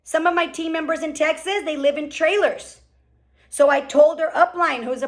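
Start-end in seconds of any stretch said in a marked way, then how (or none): none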